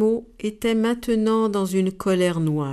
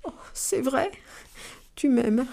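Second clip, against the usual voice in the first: moved; 5 semitones higher, 5 dB quieter than usual. Acted. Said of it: "l'hippopotame était ému".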